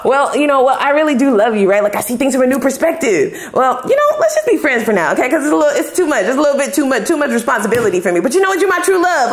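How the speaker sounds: mocked flip-flopper.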